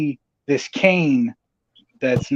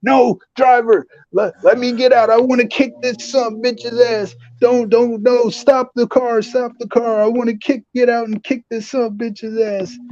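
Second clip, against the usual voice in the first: furious Vince; 9 semitones higher than usual. Retold or imitated. Vince yelling to get out of the car, hammed-up rage. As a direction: scream to stop the car. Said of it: "Vince gets pissed".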